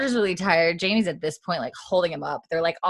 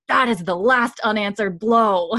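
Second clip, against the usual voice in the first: louder, higher, emphatic retold threat; mock stern warning; 4 semitones higher, 5 dB louder than usual. Jamie to Roger after the punch, mock stern warning. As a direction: lay down a final warning, lightly acted.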